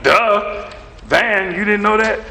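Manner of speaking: a light imitation of a smug crowd; mocking duh. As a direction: needle him like it's obvious. Congregation mocked as saying it.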